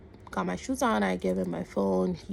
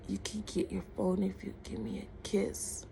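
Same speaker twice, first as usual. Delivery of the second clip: soft, lowered-volume imitation of a come-on; hushed retold advance; retold creepy proposition; 7 dB quieter than usual. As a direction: say it quietly, as a creepy bargain.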